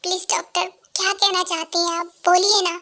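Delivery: dying mother pleading faintly with the doctor; weak and fading. Acted. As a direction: speak as if losing blood. Dying wife begs doctor weakly.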